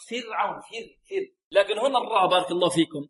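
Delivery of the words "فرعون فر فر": thin, unemphatic ر after the kasra in فرعون; light ra. Shown as a demonstration. Teacher shows the tarqiq rule, the ر in فرعون said thin. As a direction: keep the ر of فر light, tongue back not raised. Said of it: "الراء ساكنة إذا سبقت بكسر ماذا ترقق".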